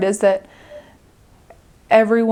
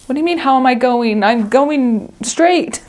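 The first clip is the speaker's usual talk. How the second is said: confused; 3 semitones higher, 4 dB louder than usual. Retold or imitated. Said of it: "And you're like".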